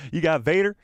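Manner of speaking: lightly voiced tow truck twang; Tow Mater impression. Shown as a demonstration. Streamer listing finale options, a light Tow Mater twang. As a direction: say it like a rusty cartoon truck. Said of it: "Tow Mater impression".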